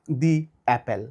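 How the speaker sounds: দি অ্যাপেল said slowly, with "the" as "dee"; slow demo of দি before অ্যাপেল; teacher drills "the" before a vowel; slow "dee apple". Shown as a demonstration. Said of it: "তখন আমরা বলবো দি".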